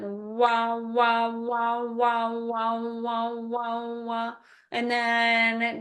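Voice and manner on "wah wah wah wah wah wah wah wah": steady eighth note wah pulses. Shown as a demonstration. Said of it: "thinking eighth notes then".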